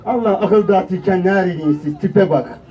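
mother's grumbling scorn. Acted. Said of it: "Annem olacak reklamda".

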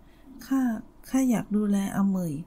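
slow, halting, choked-up words; a mild quiver held back; trembling voice. Acted. Old woman to the old man, voice mildly trembling. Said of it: "นางว่าพลันน้ำเสียงสั่นเครือ".

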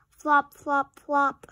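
punchy, loud sound words; loud flop sounds. A narrator's reading. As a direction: slap each flop out loud.

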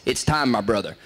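lightly voiced grave mentor; a hint of a formal trainer summoning; mild imitation of Dodd. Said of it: "and he says".

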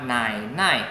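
"Nài, nài" with a low dipping first syllable; low third tone on "Nài", light second syllable. Shown as a demonstration. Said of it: "Thanh ba".

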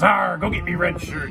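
slow, hammed-up pirate captain order. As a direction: give the order like a swaggering pirate captain, slowly. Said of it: "And he goes".

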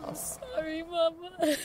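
crying softly. Acted. Sobbing apology after a nightmare.

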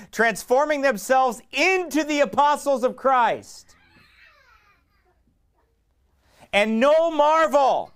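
loud, high, fervent preaching of the verse; preaching scripture. Acted. Preacher reading Second Corinthians to the church, loud fervent proclaiming. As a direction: proclaim it to the congregation.

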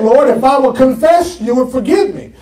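fast, demanding complaint; mock a believer demanding forgiveness now; impatient believer. Preacher mocking an impatient believer chasing forgiveness. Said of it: "You said".

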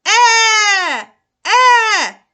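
put-on "Е" yelled high and loud like a crying baby. Shown as a demonstration. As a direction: wail "е" like a screaming toddler. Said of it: "неначе це кричить малюк". (голосне «е», як кричить малюк)

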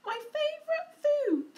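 loud, high gloating monster; Gruffalo voice. A narrator's reading. Gruffalo gloating over the mouse, loud. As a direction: relish it like a hungry monster. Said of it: "the Gruffalo said".

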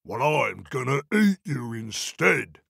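slow, menacing troll threat. Acted. Troll threatening to eat the goat, slow menacing voice. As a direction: savour the threat.

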